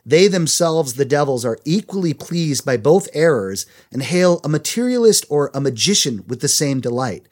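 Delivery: measured, emphatic read-aloud; reading a quote aloud. A narrator's reading. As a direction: read it out clearly to listeners. Reads a book quote.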